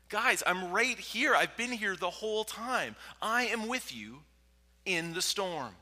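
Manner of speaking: high, emphatic rebuke to panicking friends; exasperated Jesus. Acted. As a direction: plead loudly, stretching the key words.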